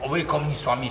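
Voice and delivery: mother's plea. Retold or imitated. Mother's repeated plea voiced.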